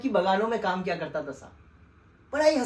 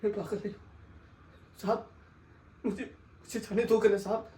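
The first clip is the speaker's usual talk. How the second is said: defeated murmur; 2 semitones lower, 5 dB quieter than usual. Acted. Pleading with the sahib, hushed and defeated. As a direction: repeat it with no strength left.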